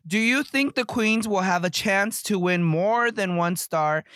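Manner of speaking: TV show recap read; host narration. Acted. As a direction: present it like a reality host. Reads show recap to camera.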